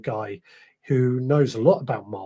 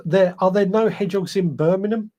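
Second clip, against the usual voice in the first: a light mock Birmingham accent on a read-out comment; 4 semitones higher than usual. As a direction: read the listener's question in a playful Birmingham accent. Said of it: "I got that accent just right there".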